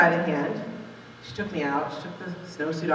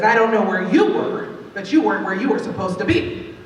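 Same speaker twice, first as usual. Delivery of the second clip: stern scolding; 5 dB louder than usual. Retold or imitated. Teacher scolding child in class.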